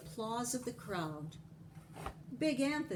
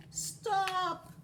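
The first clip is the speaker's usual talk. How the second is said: yelling stop; 11 semitones higher than usual. A narrator's reading. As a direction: shout it at the runaway pot. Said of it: "yelled Big Anthony".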